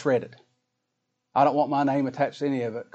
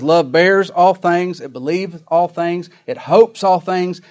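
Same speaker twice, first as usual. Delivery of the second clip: loud, measured verse reading; preaching scripture; 4 semitones higher, 7 dB louder, slower than usual. Acted. Preacher reading on love to the congregation, slow emphatic recitation. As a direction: lean slowly on each thing love does. Reads verse seven with force.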